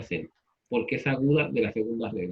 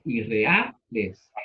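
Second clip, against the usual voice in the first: drawn-out word; 4 semitones lower, much slower than usual. Shown as a demonstration. Teacher corrects the word irreales.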